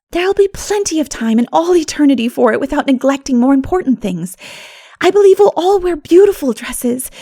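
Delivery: a lightly voiced romantic girl dreaming aloud; dreamy girl Anne. Anne dreaming to her friends of heaven, lightly voiced and wistful.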